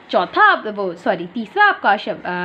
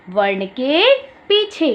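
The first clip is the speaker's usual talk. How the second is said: slow teacher emphasis; much slower than usual. Shown as a demonstration. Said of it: "ई की मात्रा का चिन्ह इस प्रकार से होता है".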